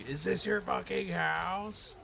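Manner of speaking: high, slow goofy taunt; a lightly voiced mock clown; silly clown voice.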